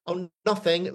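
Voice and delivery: sheepish little mumble of denial; a bit scolded. Retold or imitated. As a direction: say it like a scolded schoolboy caught out. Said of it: "a bit scolded".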